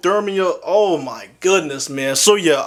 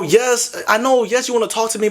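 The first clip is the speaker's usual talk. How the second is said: ordinary delivery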